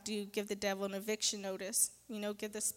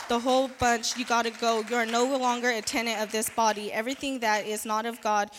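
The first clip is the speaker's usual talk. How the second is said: louder, commanding declaration; forceful decree; 5 dB louder than usual. Real, not acted. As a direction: order the spirits out with authority. Decrees eviction of evil spirits.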